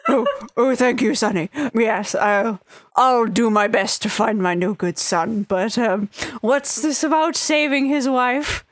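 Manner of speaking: lightly voiced grateful old man; a hint of a frail grandpa, puzzled at the end; old grandfather. Grandfather thanking the party then asking about the wife, lightly voiced old man. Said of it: "catches her and is like".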